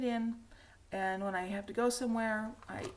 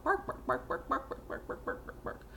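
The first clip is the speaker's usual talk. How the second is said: mock barking cough; 4 semitones higher than usual. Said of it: "cough, bark".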